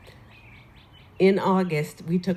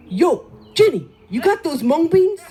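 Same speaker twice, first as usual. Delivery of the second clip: higher, loud hail; Lenny's call; 9 semitones higher, 9 dB louder than usual. Retold or imitated. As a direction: holler it up the street. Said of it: "Lenny comes back up the street".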